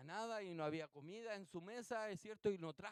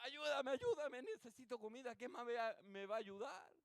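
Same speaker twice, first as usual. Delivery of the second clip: acted pleading; 4 semitones higher than usual. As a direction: beg at a closed door, imitating the friend. Amigo suplica golpeando la puerta. (súplica imitada, aguda al comienzo)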